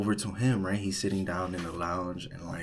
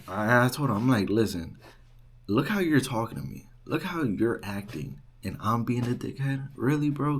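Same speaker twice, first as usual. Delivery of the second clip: indignant; 3 semitones higher, 4 dB louder than usual. Retold or imitated. Confronting the rude student.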